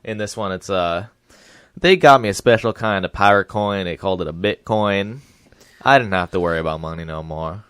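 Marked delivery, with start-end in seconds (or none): 1.8-7.6 simple-minded Southern recollection; Forrest Gump. Acted. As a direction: recount it with a simpleton's earnest lilt. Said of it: "similar in Forrest Gump One".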